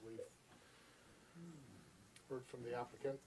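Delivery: muffled, talking behind a mask; through a face mask. Real, not acted. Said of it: "I'm just talking through a mask".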